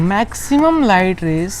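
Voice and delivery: drawn-out dictation pace; slow dictation. Shown as a demonstration. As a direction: stretch every word for writing. (धीरे-धीरे लिखवाते हुए)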